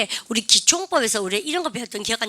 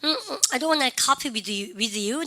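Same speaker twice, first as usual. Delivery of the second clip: hesitant, slow, softer refusal; reluctant refusal; 5 dB quieter, much slower than usual. Acted. Student turning down the teacher's coffee, reluctant and slow. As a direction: drag out the hums before turning them down. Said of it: "그러니까 우리 반이요".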